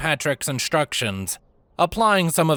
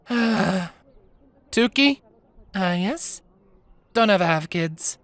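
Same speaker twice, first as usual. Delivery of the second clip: exasperated mom; 9 semitones higher, slower than usual. Acted. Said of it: "She groaned in dismay".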